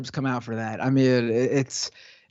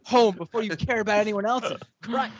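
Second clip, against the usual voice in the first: higher-pitched, lightly put-on Brooklyn accent; a touch of Brooklyn accent, mock exasperated; slight Brooklyn accent; 4 semitones higher than usual. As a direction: argue indignantly in a half-baked Brooklyn accent. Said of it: "Chris Pratt trying to do a Brooklyn accent".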